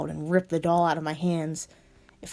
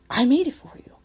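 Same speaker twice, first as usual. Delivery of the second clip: lightly voiced Alistair; 4 semitones higher, 6 dB louder than usual.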